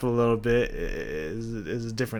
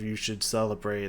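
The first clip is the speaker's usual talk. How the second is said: softer, fading imitation of the sung line; soft fade; 6 dB quieter than usual. Describing the singer's fade, quoting her line softly. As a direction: let the line sink away gently. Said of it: "with her softer fade off of".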